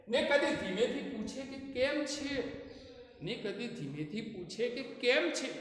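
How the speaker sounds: quiet, gentle question; soft demo of ધીમેથી; softly spoken. Shown as a demonstration. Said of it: "તો કદી ધીમેથી".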